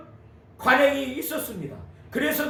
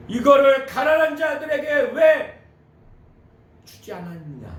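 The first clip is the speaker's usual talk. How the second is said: imitated rebuke, loud start falling away; reproachful; 3 semitones higher, 5 dB louder than usual. Judas rebuking Jesus over the poor, reproachful. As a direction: quote the accusation with mock reproach. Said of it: "예수에 대해서 책망한 거예요".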